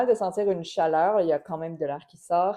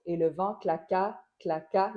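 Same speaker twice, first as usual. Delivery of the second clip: claqua stressed on its final qua. Shown as a demonstration. Teacher isolating the accent on claqua. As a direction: hit the last syllable of claqua. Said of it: "la dernière syllabe du mot".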